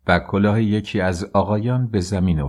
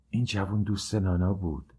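said softly; 6 dB quieter than usual. A narrator's reading. Mignon softly tells friends about the young man, hushed. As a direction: keep it down, just for the group to hear. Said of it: "با صدای آهسته گفت".

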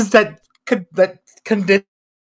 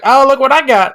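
higher, louder show-off; playful ta-da delivery, pitched up; mock triumphant inventor; 9 semitones higher, 6 dB louder, faster than usual. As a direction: present it like a quick discovery, lightly acted. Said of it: "and she went".

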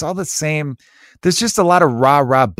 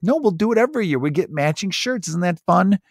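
chirpy mom voice; 5 semitones higher, 3 dB quieter than usual. Retold or imitated. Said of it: "some mother of five out there is like".

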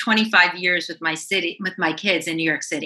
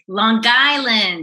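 New York accent; 4 semitones higher, 4 dB louder, much slower than usual. Shown as a demonstration. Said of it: "bring on that New York accent".

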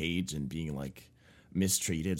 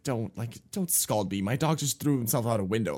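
mild anger; 4 semitones higher, 3 dB louder than usual. Retold or imitated. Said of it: "I was getting mad at this point".

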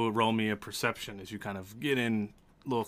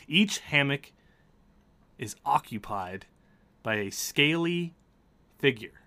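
deliberate narration with dramatic pauses; game master's scene setting. A narrator's reading. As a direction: lay out the room piece by piece.

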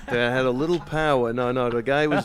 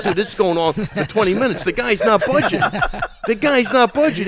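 exasperated rant; 4 semitones higher, 5 dB louder than usual. Retold or imitated. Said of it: "I'm like".

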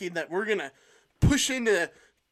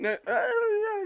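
laughing protest; 11 semitones higher, much slower than usual. Real, not acted. Teased about heritage, laughing.

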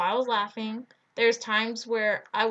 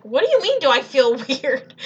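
retold disbelief, pitched up; baffled retort; 5 dB louder than usual. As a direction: throw the question back, baffled. Acting out her baffled reply.

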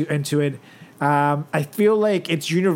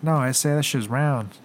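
put-on Mexican accent; 3 semitones lower than usual. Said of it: "sound like such a Mexican".

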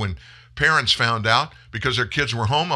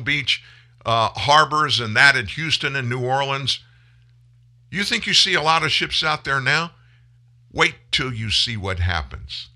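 emotional; 3 semitones higher than usual. Real, not acted. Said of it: "Do I sound a little bit emotional?".

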